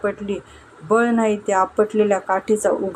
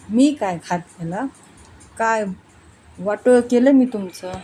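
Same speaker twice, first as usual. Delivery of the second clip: mock quarrel shout. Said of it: "तीही मोठ्यानं बोलू लागली".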